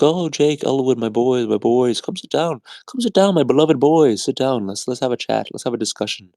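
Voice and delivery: put-on high, sweet old nun voice. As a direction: coo it like a doting nun. Nun voiced in retold film.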